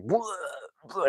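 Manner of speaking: retching "bleh" noises; mimicked puking. Narrator acts out the film's drunk puking, mimicked retching. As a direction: imitate someone puking.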